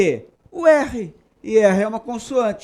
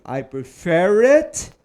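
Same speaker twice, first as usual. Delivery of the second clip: slow model sentence; much slower than usual. Shown as a demonstration. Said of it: "Então, eu diria".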